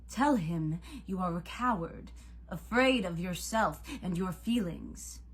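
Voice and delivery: loud, swooping, taunting accusation; accusing god Cupid. A narrator's reading. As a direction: goad the mortal into confessing.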